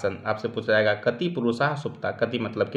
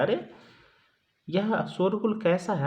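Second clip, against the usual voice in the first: calm, unhurried; 7 semitones higher, 4 dB quieter than usual. Shown as a demonstration. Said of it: "ये देखो आराम से कहता है".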